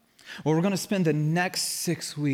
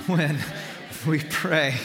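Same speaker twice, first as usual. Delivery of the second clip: with conviction. Shown as a demonstration. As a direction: say it with conviction to your neighbor. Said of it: "say it with conviction".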